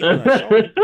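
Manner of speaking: laughing out the words. Real, not acted. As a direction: burst out laughing while speaking. Laughing at the memory.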